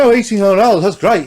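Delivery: high, loud mock delight at the price; mock delighted musician. A musician hearing the price, in mock high delight. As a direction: gush over the price in a put-on high voice. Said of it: "Clapton's like".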